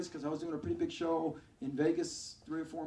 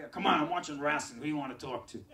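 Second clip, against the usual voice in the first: rough New York guy; 5 dB louder than usual. Retold or imitated. Rough brother on phone.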